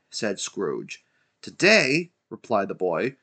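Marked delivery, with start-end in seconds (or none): 1.4-2.1 high, loud echoed question; astonished boy. A narrator's reading. Boy amazed at Scrooge's question, high and incredulous. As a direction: throw it back in surprise.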